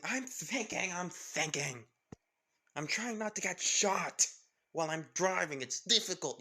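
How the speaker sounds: rattled driver snapping while she dodges bullets; a touch of frantic strain; stressed hurry. Acted. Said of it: "With Lara saying".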